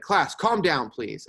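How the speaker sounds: firm classroom reprimand; stern exclamation. Shown as a demonstration. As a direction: call the class to order, pitch up then falling on please. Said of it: "in a very stern voice".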